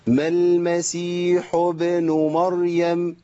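slow smiling recitation of the verse; smiling lips again. Shown as a demonstration. Teacher repeating the correct form for students: smiling recitation. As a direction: hold the smile on every word. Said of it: "احنا اتفقنا بقى في ابتسامة".

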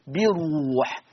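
بروح with the راء said full and heavy as in Hafs; heavy raa. Shown as a demonstration. Teacher to students, modelling the heavy raa in بروح. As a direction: stress a thick, emphatic راء in بروح. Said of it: "أن الراء ها هنا مفخمة كحفص تمامًا".

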